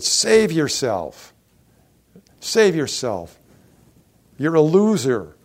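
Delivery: slow, loud jeering at a man on a cross; drawn-out mocking yell; mocking taunt. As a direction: sneer it out like a heckler in the crowd. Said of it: "they're mocking him".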